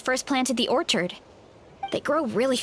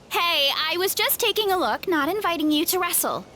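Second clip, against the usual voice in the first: laughing protest; 4 semitones higher than usual. Acted. Dog jumps on her, laughing.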